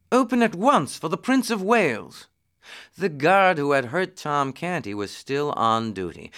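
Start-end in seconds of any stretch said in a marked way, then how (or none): 0.1-2.3 high-pitched royal command; imperious demand. A narrator's reading. Edward orders the gates opened, demanding. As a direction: demand it with full authority. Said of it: "Edward demanded".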